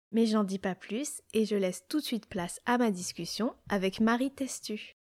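scripted episode presentation, neatly phrased; fluent read-aloud host introduction; podcast intro read. Acted. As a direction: introduce the guest in a polished read.

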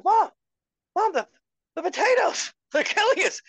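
put-on high-pitched panicked kid to mom; high, loud, hammed-up warning; mock alarm. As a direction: cry it out in exaggerated panic. Retelling his childhood alarm to mom.

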